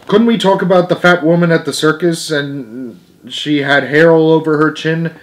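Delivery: begging. A narrator's reading. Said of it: "begged Isadore Feinberg reminiscently".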